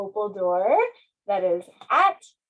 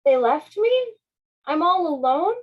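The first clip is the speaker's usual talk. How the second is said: sad realization; 6 semitones higher, 5 dB louder than usual. Acted. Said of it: "the cloud sadly realized".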